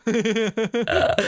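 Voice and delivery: slow, high, laughing it out; can barely get the words out for laughing; laughing helplessly. Real, not acted. Admitting defeat to co-host while laughing. Cracking up after the joke.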